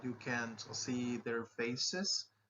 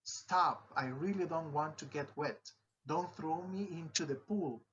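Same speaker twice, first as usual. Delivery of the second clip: pleading exclamation; 4 semitones higher than usual. Shown as a demonstration. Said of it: "I will provide you some examples".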